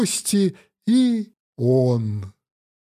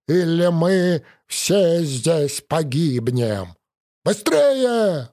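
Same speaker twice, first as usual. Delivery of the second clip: bloody mouth; slower than usual. Acted. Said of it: "булькая кровью, просипел Петя".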